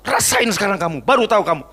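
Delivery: mock father's "serves you right"; acted gloating scolding. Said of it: "Apa kemudian Bapak bilang".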